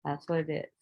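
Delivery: calm acceptance. Retold or imitated. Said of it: "I just let that be the energy".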